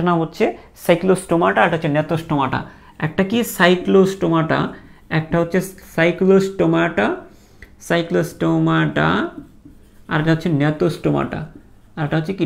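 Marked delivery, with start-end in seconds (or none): 3.4-4.6 cyclostomata drawn out syllable by syllable, very slow; teacher modelling cyclostomata slowly; slow pronunciation. Shown as a demonstration. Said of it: "উচ্চারণ করতে করতেই ঠিক হবে". 7.9-9.3 cyclostomata drawn out syllable by syllable, very slow; teacher modelling cyclostomata slowly; slow pronunciation. Shown as a demonstration. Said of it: "উচ্চারণ করতে করতেই ঠিক হবে".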